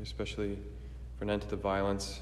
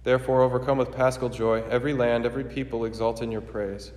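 formal, ringing liturgical proclamation; solemn preface prayer; 4 dB louder than usual. Acted.

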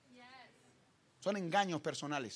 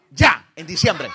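laughing; 3 semitones lower, 17 dB louder, slower than usual. Retold or imitated. Retold banter, laughing loud.

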